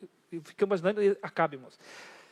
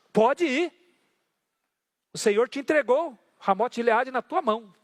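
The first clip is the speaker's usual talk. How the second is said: mock approval, higher and louder; ironic; 4 semitones higher, 5 dB louder, slower than usual. Prophet mocking the king, higher, louder ironic go-ahead. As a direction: sarcastically tell him what he wants to hear. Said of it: "estava sendo irônico".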